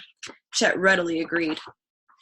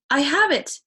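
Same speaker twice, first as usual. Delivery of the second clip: higher, louder triumphant shout; 7 semitones higher, 5 dB louder than usual. Acted. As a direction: call out the discovery. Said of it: "he shouted".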